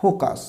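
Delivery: ফোকাস with a full "kaas" second syllable; mispronounced ফোকাস. Shown as a demonstration. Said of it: "First, this is not focus".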